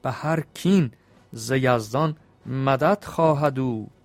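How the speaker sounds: measured, rhythmic reading of Persian epic verse; epic verse recitation. Acted. Storyteller reciting the epic's couplets to his listeners, rhythmic. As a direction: chant the couplets with a steady beat.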